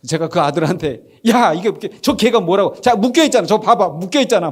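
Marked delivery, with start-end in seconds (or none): 1.3-4.5 loud, high, exasperated parent; mock impatient scolding. Father arguing with scared son about tied dog, mock scolding. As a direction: play a dad losing patience, raised voice. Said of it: "이렇게 안 한단 말이에요".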